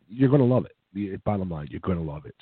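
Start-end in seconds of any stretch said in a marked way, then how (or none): 0.1-0.8 emphatic. Acted. Emphatic pitch, then repeated softly. 1.7-2.3 lower, softer aside; quiet. Acted. Emphatic pitch, then repeated softly.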